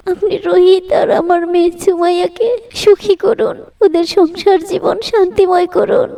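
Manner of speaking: earnest supplication to Allah, rising in fervour; heartfelt prayer. Acted. Aunt prays at her sister-in-law's grave, earnest prayer. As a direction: pray it aloud, humble and pleading.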